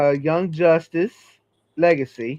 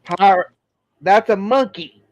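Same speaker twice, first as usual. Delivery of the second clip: excited correction; 4 semitones higher, 4 dB louder than usual. Real, not acted. Correcting friend about the picture.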